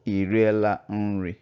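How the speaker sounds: "Ị riela nri?" als vraag, met vraagtoon; Igbo question tone. Shown as a demonstration. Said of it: "The difference is in the tones".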